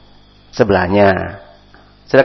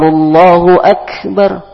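higher, slow adhan-style "Allahu akbar"; call to prayer; 10 semitones higher, 4 dB louder, much slower than usual. Shown as a demonstration. Teacher giving an example from the azan, slow and lifted. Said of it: "seperti ketika kalian azan".

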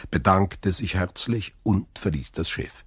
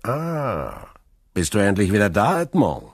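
broad smile; 3 semitones higher than usual. A narrator's reading. Neighbour greets returned Edmond, smiling broadly. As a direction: greet with a wide, audible smile. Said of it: "sagte er mit breitem Lächeln".

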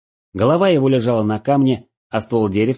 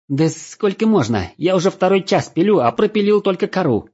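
high, exasperated complaint; indignant; 10 semitones higher than usual. A narrator's reading. Legolas fed up with sawing, complaining to Matador. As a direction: vent the frustration, pitching up. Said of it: "начал возмущаться Леголас".

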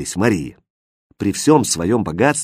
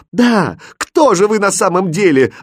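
much higher, louder shout; frantic demand for the truth; desperate cry; 8 semitones higher, 6 dB louder than usual. Acted. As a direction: cry out in despair. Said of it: "отчаянно закричала королевна".

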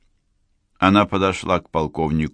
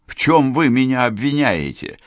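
exclaimed; 7 semitones higher than usual. Acted. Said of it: "вскричал он".

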